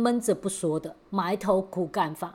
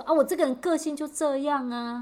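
blunt boss; 7 semitones higher than usual. Retold or imitated. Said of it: "他会说".

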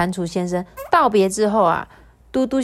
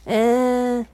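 high, slow, sheepish toad voice; apologetic toad; 9 semitones higher, slower than usual. Acted. The toad says sorry for scaring Dudu Xiang, high and slow. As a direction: apologize gently for the scare.

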